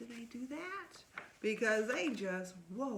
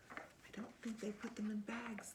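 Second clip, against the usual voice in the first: soft unvoiced whisper, quick; whispered aside; 6 dB quieter than usual. Real, not acted. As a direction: lean in and whisper the joke.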